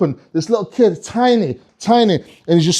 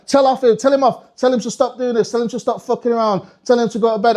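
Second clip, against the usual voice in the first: higher, insistent urging; insistent parent; 4 semitones higher than usual. Acted. Parent to Father Christmas, insistent. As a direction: press Santa to do the telling off.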